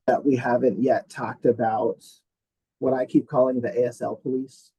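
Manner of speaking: muffled bad connection audio; underwater. Real, not acted. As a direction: voice garbled like underwater. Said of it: "sounds like you're underwater".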